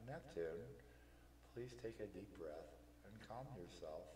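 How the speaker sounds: quiet, composed reassurance; unruffled, hushed request; very calm. Acted. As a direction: soothe gently, softening toward the end. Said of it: "Histoire very calmly says".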